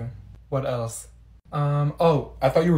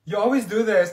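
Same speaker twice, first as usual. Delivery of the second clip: usual speaking voice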